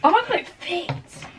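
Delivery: high, breathless surprise that it fits; surprised delight. Real, not acted. To viewers as the bags finally fit, high surprise. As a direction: gasp it out, amazed.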